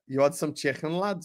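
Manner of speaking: lightly put-on Scouse accent; a touch of Scouse. Shown as a demonstration. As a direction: try a quick, casual Scouse. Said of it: "I can do the Scouse accent".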